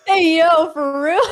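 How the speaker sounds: high, loud disbelief; incredulous call-out. Real, not acted. Reacting to the chat with friends, high incredulous cry. Joins the shocked outburst.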